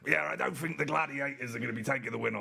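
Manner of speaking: lightly hammed-up English accent, a touch brash; playful mock English accent with a bit of swagger; mock aggressive English accent. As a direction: tease a teammate with a put-on English accent. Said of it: "his very aggressive English accent".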